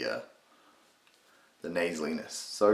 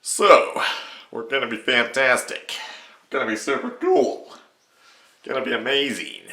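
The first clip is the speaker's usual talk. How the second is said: higher, louder cartoon impression voice; Patrick Warburton; 5 semitones higher, 7 dB louder than usual. Shown as a demonstration. Tutor demonstrating the voice to viewers, big Warburton impression. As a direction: hold it up and project, face scrunched. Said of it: "hard to do the voice".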